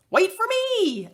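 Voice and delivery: dog yelling at friend jumping into lake. Acted. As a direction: call after him urgently. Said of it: "I yell".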